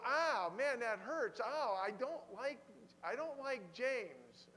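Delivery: playful wounded protest; mock pained complaint. Reader complaining that James hurts, playfully pained. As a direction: whine a little, as if stung. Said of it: "And you, you go".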